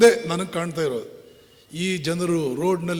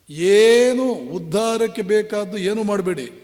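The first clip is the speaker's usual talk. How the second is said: loud scolding; 3 semitones higher, 8 dB louder than usual. Real, not acted. Mocking national inaction, sermon peak.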